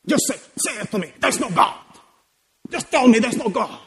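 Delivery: lightly voiced mafia-style demand; imitating a mafia boss. God challenging a doubter, imitated mafia boss. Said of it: "he's like the ultimate mafia person".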